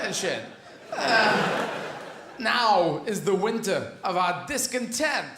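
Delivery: bad Walken Shakespeare. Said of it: "This is Christopher Walken".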